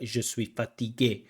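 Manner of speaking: "Je suis fatigué" in even French syllables; French syllable-timed demo. Shown as a demonstration. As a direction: demo French rhythm, each syllable equal. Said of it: "they say, like".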